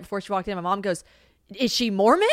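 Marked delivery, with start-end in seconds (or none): 1.5-2.3 louder, higher incredulous question; loud, pitched-up nosy query; mom's surprised question. Retold or imitated. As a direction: imitate mom asking in mild disbelief.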